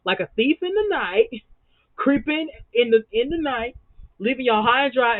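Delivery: mock spooky sneaking tone; a thief in the night. Mocking husband sneaking off.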